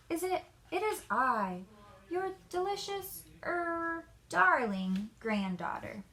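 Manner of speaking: put-on high voice, a wolf playing sweet granddaughter; wolf faking a high voice. Wolf at Granny's door pretending to be her granddaughter, fake high voice. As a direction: squeak it up to pass as the girl. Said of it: "said the wolf in a high voice".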